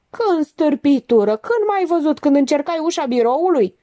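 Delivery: high, indignant cross-questioning; angry demand. A narrator's reading. Doctor wheels on Monica over the accusation, indignant and high. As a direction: challenge her sharply, pitched well up.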